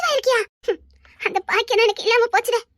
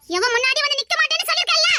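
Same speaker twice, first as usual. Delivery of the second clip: defiant yelling; 4 semitones higher than usual. Acted. Daughter refusing to face the groom's family, defiant yelling. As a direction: voice rising in protest. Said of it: "கத்தாத, கத்தாத".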